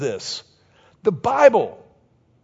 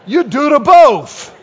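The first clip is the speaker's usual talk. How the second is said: loud, high, slow Cajun waitress imitation; Cajun catchphrase; 6 semitones higher, 10 dB louder than usual. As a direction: proclaim it in a mock Cajun accent. Reprises the waitress's catchphrase in preaching.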